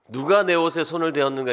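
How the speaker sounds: lightly voiced, solemn Gungye tone; a hint of the drama king Gungye; Gungye manner of speech. Shown as a demonstration. Preacher jokes his line sounds like Gungye, lightly solemn. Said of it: "그 궁예 말투".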